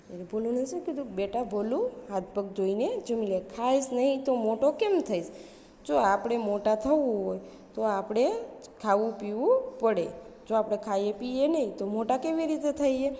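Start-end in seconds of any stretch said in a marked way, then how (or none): 1.2-13.1 mother calling out. Retold or imitated. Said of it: "રાડ પાડીને બોલાવ્યો".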